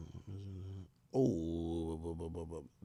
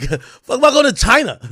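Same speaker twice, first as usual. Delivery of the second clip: much higher, louder shout of disbelief; disbelieving yell; 10 semitones higher, 7 dB louder than usual. Retold or imitated. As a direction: yell it like you can't believe it. Retelling his shock at China trip.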